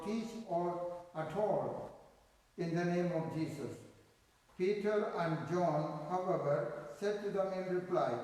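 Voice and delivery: measured liturgical reading voice; scripture reading. Acted. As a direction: read it like a lector at Mass. Reads scripture at Mass.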